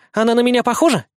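put-on high curious child; eager little girl asking. Little girl's voice.

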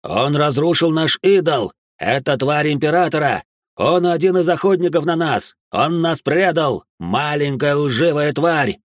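громко, выше и медленно, с яростью; обрушь обвинения на предателя; гневные обвинения. Acted. Толпа обвиняет мальчика. (разъярённый культист кричит на мальчика)

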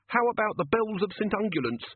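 last desperate pitch; desperate gnome. A narrator's reading. Gnome begging Ridcully to let him stay, high squeak. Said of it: "said the gnome desperately".

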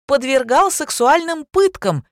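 high, loud, slow accusation; insistent. A narrator's reading. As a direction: hammer the accusation home. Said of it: "упорствовала любовница". (упрямо, громко и высоко)

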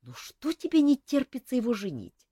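understated surprise; surprised. A narrator's reading. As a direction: ask it with mild surprise. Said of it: "удивилась Ольга".

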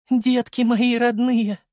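put-on a mother overcome, clutching her children; tearful mother. Mother hugs son and bride, in a high tearful voice. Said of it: "прошептала она дрожащим голосом".

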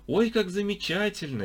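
high, honeyed delight; butter her up sweetly; old man flattering the guide; unctuous. A narrator's reading. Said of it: "елейно кивал старик".

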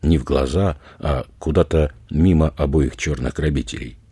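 usual speaking voice

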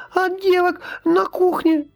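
put-on frightened girl. A narrator's reading. Scared servant girl pleading with the boy, squeaky.

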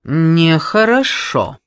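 loud brash woman; brash boss. Acted. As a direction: boom at her like a brash boss. Boss disapproves.

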